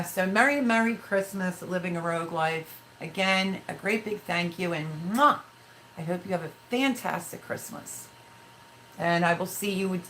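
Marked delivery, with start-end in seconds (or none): 5.1-5.4 a playful "mwah"; blown kiss. Real, not acted. Streamer thanking viewers at Christmas, kiss sound.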